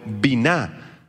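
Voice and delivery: biná stressed on the final syllable. Shown as a demonstration. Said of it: "acento en la A".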